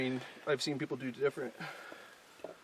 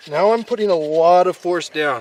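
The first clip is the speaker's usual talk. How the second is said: heavy breathing; 3 semitones higher, 15 dB louder than usual. Real, not acted. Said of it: "Excuse the breathing".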